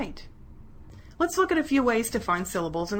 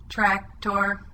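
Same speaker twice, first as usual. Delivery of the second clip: Sunset chopped into two flat, even pieces, SUN and SET; level robot monotone, one piece per syllable; robot speak. Shown as a demonstration. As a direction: chop Sunset apart like a robot. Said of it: "Let's say these words like the robot".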